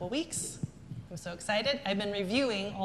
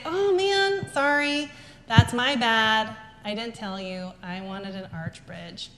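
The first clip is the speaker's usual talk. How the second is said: apologetic owning it; 3 dB louder, slower than usual. Retold or imitated. Boss apologizing to staff for unclear instructions, sincere and softening. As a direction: apologize sincerely, taking all the blame yourself. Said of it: "that's actually what I say".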